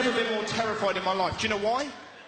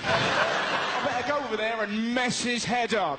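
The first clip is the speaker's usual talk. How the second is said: mock burglar; slower than usual. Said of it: "he'd obviously gone".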